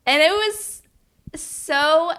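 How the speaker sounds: fighting back real tears, pitch climbing; choked up. Real, not acted. Telling a listener about a caseworker's reveal, voice breaking with emotion. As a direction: voice jumps high and loud as emotion breaks through. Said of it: "and I get emotional".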